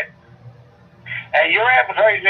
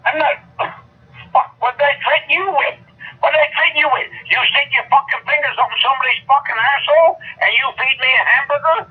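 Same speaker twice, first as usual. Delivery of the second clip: pitched-up, outraged denial; indignant outrage; 4 semitones higher than usual. Real, not acted. Angry man denying the threat to the caller, outraged. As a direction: protest the accusation, voice climbing higher.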